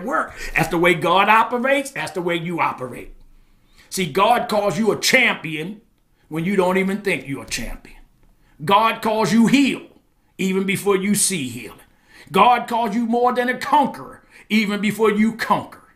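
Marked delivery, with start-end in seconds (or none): 3.9-15.8 measured, forceful declarations; emphatic preaching. Real, not acted. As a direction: declare it to the congregation, landing the key words.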